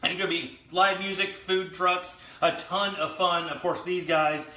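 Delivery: upbeat host sign-off; show host outro. Acted. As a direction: read it like a show promo. Show sign-off promo read.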